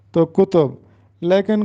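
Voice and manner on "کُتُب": کتب said kutob, two rounded vowels; دو پیش والا تلفظ. Shown as a demonstration. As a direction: say کتب as ku-TOB. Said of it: "اور تے پر بھی پیش". (کتب کاف اور تے پر پیش، کُتُب)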